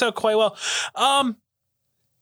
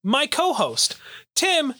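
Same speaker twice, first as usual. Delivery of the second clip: ringmaster; 3 semitones higher than usual. Acted. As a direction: announce it like a ringmaster. Show host big intro.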